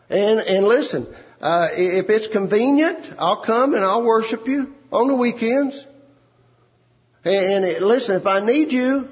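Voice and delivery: a hammed-up, casual "Jesus, listen"; mock casual believer. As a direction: play the lukewarm believer, flippant. Mocking casual Christians' attitude.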